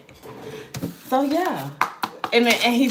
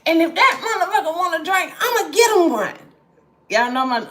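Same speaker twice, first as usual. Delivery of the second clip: higher and louder, laughing through it; laughing at her own joke; 9 semitones higher, 5 dB louder than usual. Real, not acted. Joking about her uncle's spirit.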